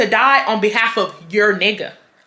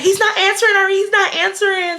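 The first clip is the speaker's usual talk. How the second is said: retold panic; 10 semitones higher than usual. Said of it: "she starts freaking out".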